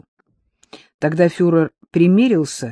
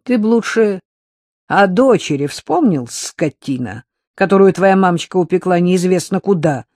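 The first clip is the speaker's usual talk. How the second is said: не выдержала; 3 semitones higher, 5 dB louder than usual. Acted. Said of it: "не выдержала Рита".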